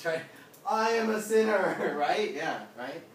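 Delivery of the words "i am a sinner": loud, higher-pitched cry of a sinner; mock repentant cry. Preacher playing a sinner confessing to the group, mock repentant cry.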